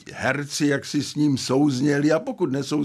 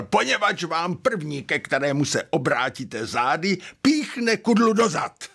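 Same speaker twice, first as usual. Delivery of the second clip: higher-pitched imitation of a dramatic warning; mock-dramatic warning, animated; emphatic mentor quote; 3 semitones higher than usual. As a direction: deliver the mentor's punchline, rising to a high finish. Acting out mentor's emphatic answer.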